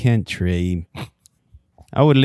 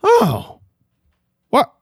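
lightly voiced snippy clerk; a hint of a curt postal worker; clipped snippy cashier; 3 semitones lower than usual. Clerk in improvised sketch.

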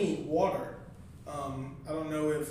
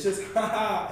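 mock laugh; 2 semitones higher, slower than usual. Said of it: "laughing at whatever it is".

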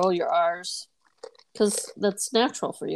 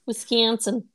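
playful Wisconsin vowels on the name; Wisconsin accent; slower than usual. Retold or imitated. Echoing friend's tease, playful Wisconsin accent. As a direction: say it like a Wisconsin native. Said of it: "She's from Wisconsin".

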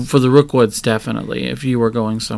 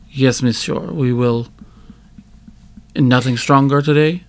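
put-on cautious English in a French accent; French-accented barman, choosing words carefully. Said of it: "you can hear a very thick accent, a French accent".

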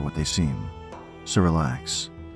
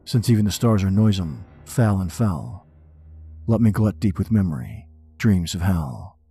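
dramatic poem reading; 3 semitones higher than usual. Acted. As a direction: read it like a haunted man.

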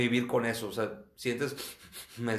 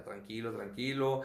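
soothing self-talk; 4 dB quieter than usual. Retold or imitated. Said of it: "pues, ya".

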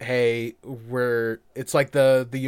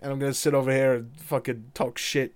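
put-on Scottish accent. Cait Sith bragging about his Iron Brew, Scottish accent. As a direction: toss it off like a cheeky Scot. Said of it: "rattle off a whole bunch of Scottish".

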